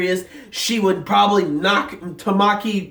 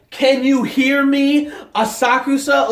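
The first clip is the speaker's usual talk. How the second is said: imitated town-wide yell; 4 semitones higher than usual. Leader addressing the entire town, retold yell. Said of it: "he yells at the town".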